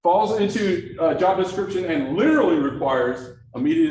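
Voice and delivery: LITERALLY punched out loud; stress on LITERALLY. Shown as a demonstration. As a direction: drive home the word "literally". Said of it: "should I change it to literally".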